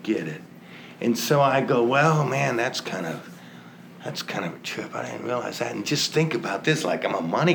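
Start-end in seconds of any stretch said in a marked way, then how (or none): 1.8-5.7 softer, half-whispered aside to himself; quiet musing. Retold or imitated. Man musing about his O'Doul's habit, quietly. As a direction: mull it over under your breath.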